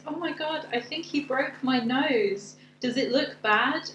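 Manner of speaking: high, slow, alarmed whine; shrill panic over a broken nose; panicked squeal. Retold or imitated. Punched Hermione panics over her nose.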